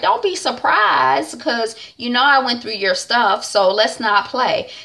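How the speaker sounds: a hint of a sassy girlfriend who knows everything; sly calling out. Mary Jane warning Justin she went through his stuff, knowing and slow.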